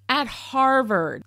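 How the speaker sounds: slow, weighty stress on "Harvard"; "Harvard" stretched slowly for emphasis; emphatic Harvard. Real, not acted. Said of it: "I keep saying it like that".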